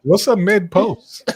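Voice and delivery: a hint of a confused baby; baby's question. Mimicking the baby for the panel, puzzled baby voice. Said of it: "Baby was like".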